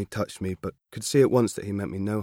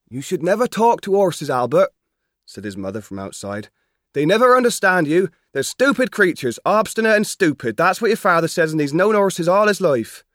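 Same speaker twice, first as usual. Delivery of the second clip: higher, louder country mother telling him off; mother scolding her son, stern; 10 semitones higher, 9 dB louder than usual. Acted. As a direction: warn the boy firmly. Mother calls from outside.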